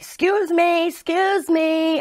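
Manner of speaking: high, sharp, impatient "excuse me"; mock snippy customer. Rude bar customers snapping at the bartender, high mock impatience. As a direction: mimic rude customers demanding service. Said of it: "they're, like, snapping at me".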